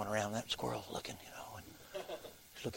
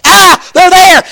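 high, slow squeaky critter cry; a cartoon squirrel shrieking in alarm; panicked squirrel; 27 dB louder, much slower than usual. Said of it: "The squirrel's like".

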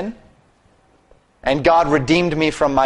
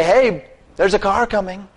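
raised-pitch heads-up at normal volume; spoken warning; 5 semitones higher than usual. Retold or imitated. Preacher showing the least one could say to the man, spoken warning. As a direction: say it as a higher, unshouted warning. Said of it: "Or at least say".

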